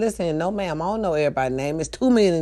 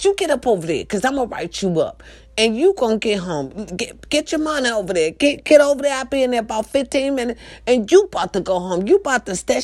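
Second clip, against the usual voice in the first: retold telling-off; 5 semitones higher than usual. Retold orders to employee.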